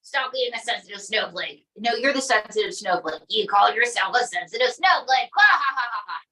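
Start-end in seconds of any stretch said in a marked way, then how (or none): 5.3-6.2 forced ha-ha that fades out; mock laugh. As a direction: laugh at him on purpose. Mocking laugh at puppet.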